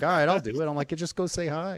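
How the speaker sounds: a hammed-up pep talk to himself; mock psyching up. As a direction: pump yourself up in a high voice.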